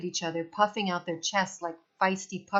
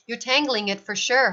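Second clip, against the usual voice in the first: loud cranky accusation; complaining; 4 semitones higher, 5 dB louder than usual. Acted. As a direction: blame him crossly. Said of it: "Halvor complained".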